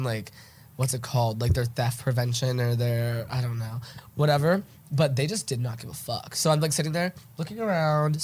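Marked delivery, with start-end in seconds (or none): 6.4-8.2 stuffy nose from allergies; congested. Real, not acted. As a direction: talk through a blocked nose. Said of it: "Sorry, I'm, like, congested".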